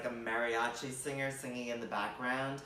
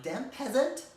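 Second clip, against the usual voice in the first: high, loud outraged master; scornful shout; 11 semitones higher, 6 dB louder than usual. Retold or imitated. Master shouting at the orphan asking for oil. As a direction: bark down at the peasant.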